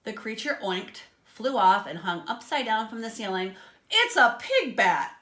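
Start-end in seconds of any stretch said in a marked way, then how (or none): 3.9-5.2 louder, slow dismayed pig; dismayed surprise. A narrator's reading. Pig naming the pig bat, dismayed and slow. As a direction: spell out the mistake slowly. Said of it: "Doctor Pig said".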